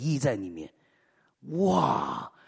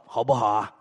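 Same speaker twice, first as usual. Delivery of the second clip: whispered aside; 7 semitones lower than usual. Acted. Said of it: "whispered aside to congregation".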